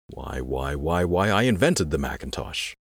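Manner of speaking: soft, stammering imitation of the boss; soft Jeff Raskin voice. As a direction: stammer the repeated whys. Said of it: "exclaiming in a soft, Jeff-like voice".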